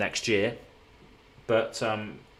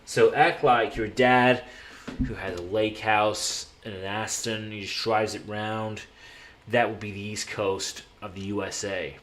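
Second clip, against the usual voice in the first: put-on East Coast American dad; East Coast American accent. Shown as a demonstration. Streamer playing lake-house dad for his chat, East Coast American accent. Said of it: "the lifestyle of the East Coast American".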